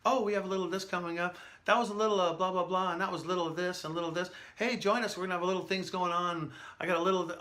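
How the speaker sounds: rookie DJ patter. Retold or imitated. Retelling his early radio days to students, mock DJ patter. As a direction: hype it up like a nervous new morning DJ. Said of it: "I would say the word little".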